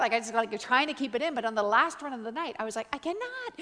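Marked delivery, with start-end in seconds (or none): 2.9-3.5 high-pitched, squeezed outburst; can't hold back. Retold or imitated. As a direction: burst out as if unable to contain it. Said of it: "I'm trying to keep it down".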